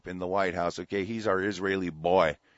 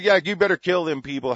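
bitter sarcasm; 8 semitones higher, 7 dB louder than usual. Acted.

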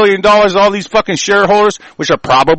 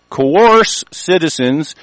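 slow, drawn out; much slower than usual. Shown as a demonstration. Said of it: "Other countries".

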